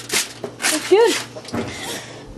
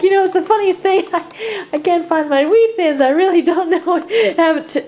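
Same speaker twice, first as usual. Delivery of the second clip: nervous laugh; 4 semitones higher, 4 dB louder than usual. Real, not acted. Nervously asking roommate about snack.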